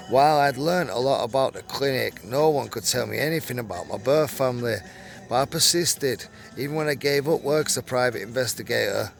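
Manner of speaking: reading a written account aloud; story read-aloud. Acted. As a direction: read it out like a magazine true story.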